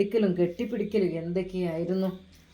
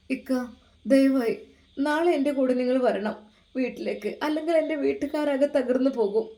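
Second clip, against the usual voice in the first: pleading wife; 2 semitones higher than usual. Acted. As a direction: beg him to believe you.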